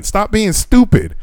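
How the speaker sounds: high, drawn-out retold scolding; exasperated anger. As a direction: re-enact telling someone off, slowly. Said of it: "It just, I got angry".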